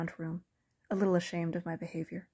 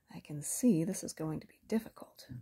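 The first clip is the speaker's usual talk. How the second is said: amused. Acted. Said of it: "The voice was amused".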